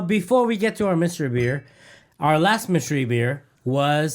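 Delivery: loud, cutting in; talking over everyone loudly; yelling. Real, not acted. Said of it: "Why are you yelling, dude?".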